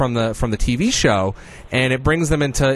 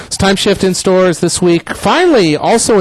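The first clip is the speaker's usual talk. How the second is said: hyped announcer; 8 semitones higher, 5 dB louder than usual. Acted. Hyped announcement of a new game release.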